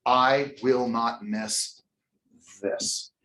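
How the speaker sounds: drawn-out, slow resolve; slow determined vow. Retold or imitated. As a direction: say it slowly like a vow. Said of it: "I started making a thing".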